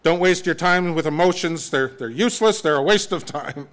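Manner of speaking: a hint of a stern mother dismissing emotions; stern German mother. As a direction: imitate a no-nonsense mother scolding. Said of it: "my mother saying to me".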